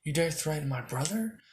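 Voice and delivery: slow, lightly menacing challenge; a hint of cold big-brother anger; mild anger. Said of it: "Nozel goes".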